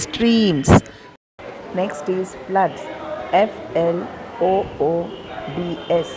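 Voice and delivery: slow word by word dictation; dictating. Acted. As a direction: spell each word out for the class. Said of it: "I'll be going to take dictation".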